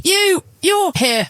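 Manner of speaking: high, slow stunned stammer; stunned husband. A narrator's reading. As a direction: gape out the words in shock.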